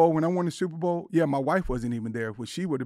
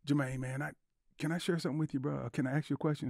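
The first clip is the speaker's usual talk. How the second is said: soft confiding; 6 dB quieter than usual. Retold or imitated. Imagined friend confiding, softer.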